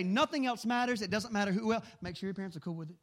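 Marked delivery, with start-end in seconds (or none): 0.0-1.8 firm, louder declaration; declare it. Shown as a demonstration. Preacher modelling the words for his listeners, firmly declared. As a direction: say it like a vow. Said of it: "and say".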